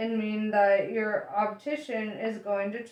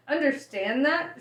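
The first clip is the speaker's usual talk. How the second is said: indignant shout, pitch jumping up; 4 semitones higher, 4 dB louder than usual. Acted. Arthur shouting back at Ford in disbelief. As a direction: yell the words back in disbelief. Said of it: "shouted Arthur".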